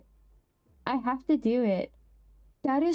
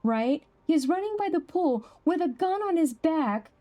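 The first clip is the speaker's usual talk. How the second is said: incredulous; 8 semitones higher than usual. Real, not acted. Incredulous at the clip.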